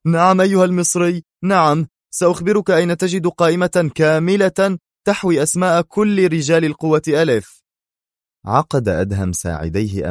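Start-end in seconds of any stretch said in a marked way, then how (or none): 0.1-7.6 high, loud, panicked voice; terrified cry. Acted. Alan ungagged pleads with Adham, terrified. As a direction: beg out of fear. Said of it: "صاح آلان في رعب".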